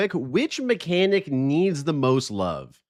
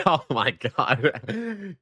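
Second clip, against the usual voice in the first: laughing; 2 semitones higher, much slower than usual. Real, not acted. Laughing at chat.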